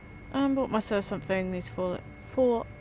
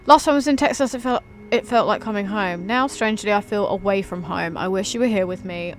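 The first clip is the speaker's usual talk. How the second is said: louder, heartfelt letter reading, stressing each opening word; dramatic love letter read; 5 dB louder than usual. Shown as a demonstration. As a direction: read it out like you truly mean every line. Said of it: "I'm not even reading".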